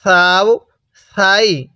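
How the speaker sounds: সাও with a soft, light স; টাo keep the স in সাও and সাই gentle; সাই softly pronounced, no hard hiss. Shown as a demonstration. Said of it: "সাটা নরম করে উচ্চারণ করব".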